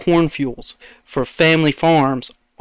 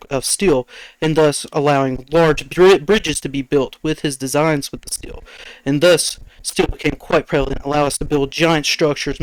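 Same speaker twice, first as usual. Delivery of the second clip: even, measured explainer delivery; reading off a script. Real, not acted. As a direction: deliver it like a prepared speech. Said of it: "Sounded like you just read off of the script".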